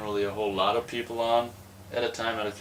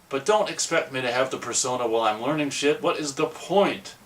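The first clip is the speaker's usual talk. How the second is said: frustrated rant; 4 semitones higher, 3 dB louder than usual. Real, not acted. Ranting about job expectations.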